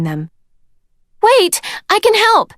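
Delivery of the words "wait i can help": much higher eager call. A narrator's reading. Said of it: "Sunny called".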